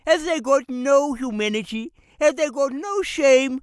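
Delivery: mild mounting indignation; indignant sermon. Acted. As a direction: rise into a preacher's condemnation. Preacher denouncing mine owners.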